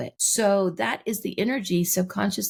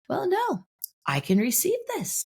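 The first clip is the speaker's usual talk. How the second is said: growing acceptance; 12 semitones higher than usual. Acted. Voices the next layer of acceptance.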